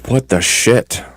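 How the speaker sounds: glitchy robotic distortion. Real, not acted. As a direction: voice chopped up by a bad connection. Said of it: "you are roboting hard".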